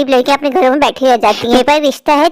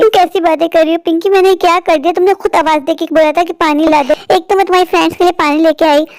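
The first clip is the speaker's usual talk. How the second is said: raised pitch, pleading innocence; hurt protest; 3 semitones higher than usual. Acted. Stepsister explains spilled water to her accuser, hurt protest. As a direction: defend yourself, wounded and earnest. Accused sister defends herself.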